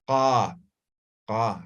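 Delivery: low "Ah" from the throat; relaxed "ah" at the back of the throat; throat sound demo. Shown as a demonstration. Teacher showing students the effortless throat sound. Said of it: "sí, desde la garganta".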